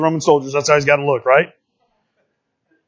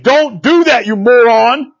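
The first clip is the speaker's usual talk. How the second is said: higher, sharp mock scolding; a lightly voiced exasperated conscience; scolding inner voice; 5 semitones higher, 4 dB louder, slower than usual. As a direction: play the voice in your head telling you off. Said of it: "And he's saying".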